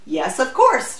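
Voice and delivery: lifted, warmly eager reply; warm assurance. A narrator's reading. Applicant assuring the doubting official, warmly. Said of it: "she told him warmly".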